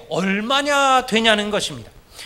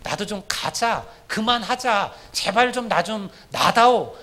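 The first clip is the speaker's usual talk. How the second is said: hushed, softer pleading voice, opening on a whisper; God begging Jacob to let go, hushed; 3 semitones lower, 3 dB quieter than usual. Retold or imitated. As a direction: beg quietly to be let go. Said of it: "지금 하나님이 사정하는 거예요".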